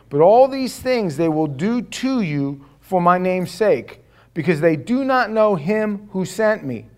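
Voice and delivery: loud, measured Bible reading; scripture reading. Acted. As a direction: proclaim the verses to the church. Reads scripture aloud.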